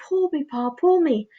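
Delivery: whisper-sweet temptation from the pigtail; a hint of a sly talking pigtail; tempting pigtail voice. A narrator's reading. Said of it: "the pigtail saying".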